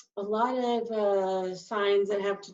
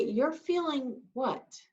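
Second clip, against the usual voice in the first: puzzled question; 4 semitones higher, 3 dB quieter, slower than usual. Shown as a demonstration. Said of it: "Or you could say".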